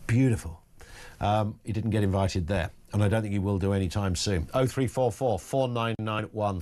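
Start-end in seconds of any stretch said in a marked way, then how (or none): 0.1-0.6 Trump. Retold or imitated. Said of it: "invited to Trump's White House".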